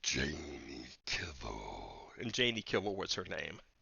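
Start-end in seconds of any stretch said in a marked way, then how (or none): 0.0-2.1 very deep, low, rough, growly voice. Retelling coming up behind a young woman and saying her name, deep growly voice. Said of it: "I said it in the deep growly voice".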